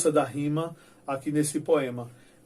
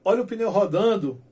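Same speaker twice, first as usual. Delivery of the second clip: teasing shout, louder and higher; calling out; 4 semitones higher, 6 dB louder than usual. Retold or imitated. Boy mocking a friend riding past, teasing shout. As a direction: yell it at a kid on a bike.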